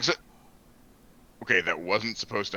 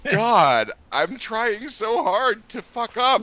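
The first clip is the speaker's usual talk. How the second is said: exasperated; 11 semitones higher, much slower than usual. Real, not acted. Frustrated laughing complaint.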